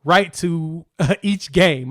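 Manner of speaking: stumbling over the words with restarts; real halting, tongue-tied slip. Real, not acted. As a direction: trip up and grope for the phrase. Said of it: "I'm all tongue-tied".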